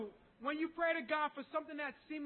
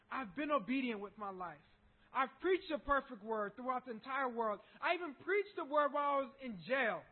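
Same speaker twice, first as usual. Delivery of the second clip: pleading prayer; 5 dB louder than usual. Acted. Paul's prayer voiced in sermon.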